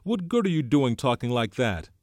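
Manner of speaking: shrill, loud scolding. A narrator's reading. Piggy scolding Ralph for talking like that, shrill. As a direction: scold at a high, loud pitch. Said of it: "said Piggy shrilly".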